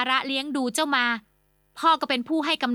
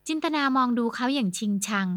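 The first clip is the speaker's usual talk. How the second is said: ordinary delivery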